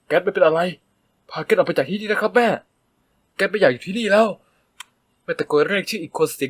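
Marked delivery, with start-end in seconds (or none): 0.1-4.3 higher, louder appeal; pleading. A narrator's reading. Son pleading with mother to go, raised voice. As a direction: beg her to take you away.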